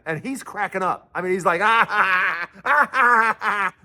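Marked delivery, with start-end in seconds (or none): 1.6-3.7 weird laugh. Retold or imitated. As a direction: imitate a strange choppy cackle. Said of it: "one of these weird laughs".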